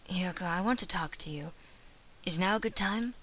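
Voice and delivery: put-on soft, subdued young man's voice; troubled boy, hesitant. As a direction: tentatively ask a friend for a moment. Voices Ryota, troubled friend.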